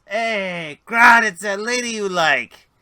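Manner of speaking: loud, high character holler; calling out. Acted. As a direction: holler the news up to a buddy. Grick calls up to Grodd.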